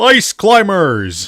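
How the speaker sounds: loud video game announcer voice. Imitating the Smash Melee announcer calling out a fighter: Smash Melee announcer voice. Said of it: "sounds like the Smash Melee announcer".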